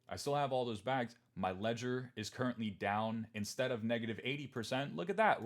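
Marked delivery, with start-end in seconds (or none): 5.0-5.4 mock surprise. Real, not acted. Mock pointing at ledger drop.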